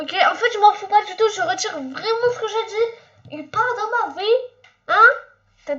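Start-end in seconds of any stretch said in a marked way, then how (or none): 0.0-3.4 laughing. Real, not acted. Takes back not caring.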